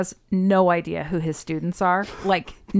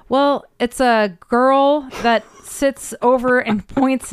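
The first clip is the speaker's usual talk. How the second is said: coworker's reply; 5 semitones higher, 4 dB louder, slower than usual. Retold or imitated. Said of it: "And he goes".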